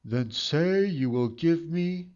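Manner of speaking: a hint of a sly goblin; lightly voiced scheming little man; sly hobgoblin. A narrator's reading. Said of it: "said the little man".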